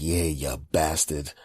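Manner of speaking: mocking back voice.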